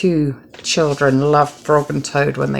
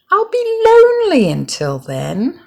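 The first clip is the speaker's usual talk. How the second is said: lonely plea; 14 semitones higher, 4 dB louder than usual. A narrator's reading. Frog telling Toad he will be lonely. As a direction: let the loneliness show.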